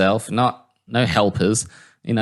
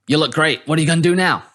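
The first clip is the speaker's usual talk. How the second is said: higher, bubbly impersonation; imitated outgoing Southerner, pitched up; Booty; 6 semitones higher, 3 dB louder, faster than usual. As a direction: play an upbeat, full-of-beans guy. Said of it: "he's just full of beans".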